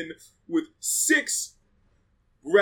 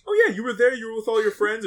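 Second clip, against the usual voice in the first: casual; 4 semitones higher, 3 dB louder than usual. Retold or imitated. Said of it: "did she say it like".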